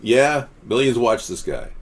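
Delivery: slow it down as if won over; quoted sincere agreement. Retold or imitated. Host reading the viewer's changed opinion, slow and conceding. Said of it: "and then he's now saying".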